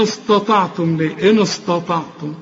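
"استطعتم" with thick, dark s and t; mistaken heavy s. Retold or imitated. Teacher challenging the student's reading, heavy s. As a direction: darken all of "إن استطعتم". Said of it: "أمال بتقول".

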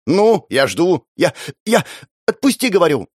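bluff, then stumble over words; flustered girl. Acted. Sister falters, demands release.

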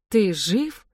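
can't believe he's alive; stunned disbelief. A narrator's reading. Eva sees her sister's husband alive, shocked.

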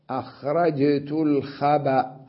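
الخبأ as al-khaba', cut on a final hamza; pause with vowel transfer. Shown as a demonstration. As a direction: slowly, put an a on the ب of الخبأ. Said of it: "الباء قبلها".

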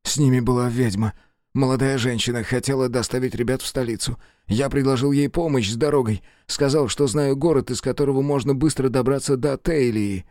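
a hint of a frightened man; nervous prisoner. Jacob voiced higher.

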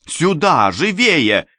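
high, loud hurrying cry; urgent call. A narrator's reading. Rescuer hurrying the narrator out of the mansion, urgent call. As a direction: urge him on loudly.

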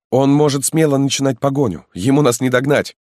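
a loyal lad pressing his lord to hurry; eager young peasant. Acted. Halmalo urges the marquis to flee, high and eager.

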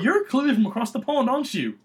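badly faked British accent. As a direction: lightly put on a poor British accent. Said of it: "That was a bad accent".

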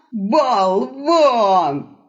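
sudden furious squeal; old man shrieking at the wolf in anger; angry shriek. Acted. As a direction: screech the insult. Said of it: "в гневе взвизгнул старикан".

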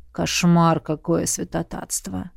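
a king feigning horror; mock-shocked king. A narrator's reading. King mocks, low.

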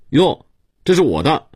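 put-on high-pitched young master's claim; bossy little boy. A narrator's reading. Rich boy grabbing a poor boy's clothes, high and bossy. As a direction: pipe up high like a cocky child.

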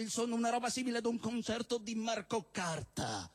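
a stand-up poet reciting with mock gravity; comic poem recitation. Poet reciting a love poem to the crowd, mock solemn. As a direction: declaim the absurd verses like a serious love poem.

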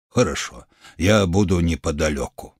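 low, measured doctor voice; steady physician giving a diagnosis; calm healer. Acted. Healer answers.

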